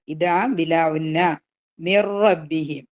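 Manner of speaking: slow recited phrase; tajweed recitation; Quran recitation. Shown as a demonstration. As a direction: chant it smoothly, merged.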